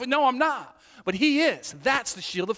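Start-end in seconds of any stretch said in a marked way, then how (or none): 0.0-0.8 giving in. Acted. Believer agreeing in despair.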